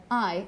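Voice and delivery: the diphthong A said as "I"; Cockney vowel. Shown as a demonstration. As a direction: sound out A as a Cockney "I". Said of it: "the diphthong A is pronounced like I".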